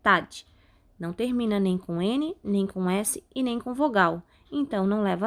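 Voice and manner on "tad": tad set apart and firmly hit; stressed syllable alone. Shown as a demonstration. Teacher names the tonic syllable for students, tad said firmly. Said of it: "a sílaba tônica é".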